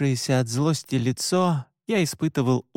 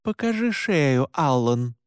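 slow command; slower than usual. Acted. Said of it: "медленно велела она".

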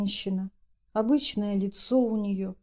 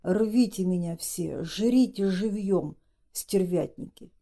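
groaning. Acted. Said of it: "вдруг застонал Григорий".

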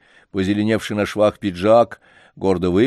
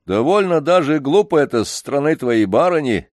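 getting angry; 6 semitones higher, 4 dB louder than usual. Acted. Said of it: "рассердился вдруг Лодыжкин".

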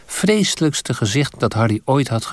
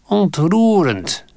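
high, slow, drawn-out sneering hiss; 9 semitones higher, 4 dB louder, much slower than usual. A narrator's reading. The evil face mocks Harry's courage, slow high sneer. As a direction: savour the word like a snake. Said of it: "siste het".

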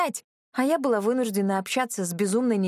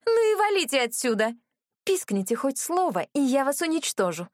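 shouted threat; 6 semitones higher than usual. Acted. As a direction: drive them off with a raised shout. Безумная брюнетка прогоняет спутниц. (яростный крик, выше и громче)

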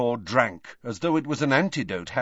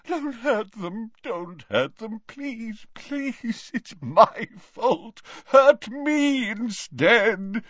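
moaning plea; 9 semitones higher, slower than usual. Acted. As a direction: beg for them, moaning. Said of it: "as he moaned".

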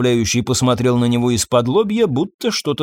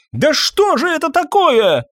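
high, indignant cry of disbelief; a doctor at the end of his rope, crying out; outraged outburst; 3 dB louder than usual. Acted. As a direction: burst out in exasperation.

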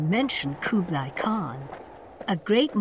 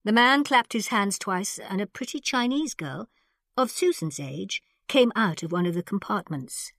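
usual speaking voice

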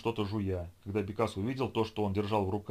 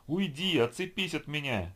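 panicked scream; 6 semitones higher, slower than usual. A narrator's reading. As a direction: shriek in terror. Boy fights off zombie.

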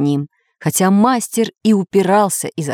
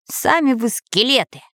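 slightly raised, indignant retort; offended; 5 semitones higher than usual. A narrator's reading. Hidden stranger answering the accusation, mildly offended. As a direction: take offence, higher than usual. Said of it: "обиделся первый голос".

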